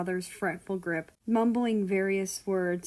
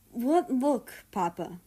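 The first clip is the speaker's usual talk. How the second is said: confused; 5 semitones higher, slower than usual. A narrator's reading. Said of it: "sent him a confused glare".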